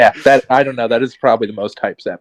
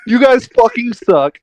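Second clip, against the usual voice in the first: excited shouting; 13 semitones higher than usual. Real, not acted. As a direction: cheer the win wildly. Celebrating the win.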